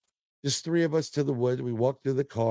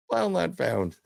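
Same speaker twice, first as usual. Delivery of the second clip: laughing disbelief; 6 semitones higher than usual. Retold or imitated. Teller laughing at the missing video file. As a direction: repeat it higher with a laugh.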